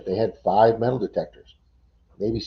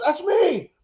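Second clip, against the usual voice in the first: high, excited imitation of a winner; excited claim. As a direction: call it out like the lucky ticket holder. Winner runs over, retold.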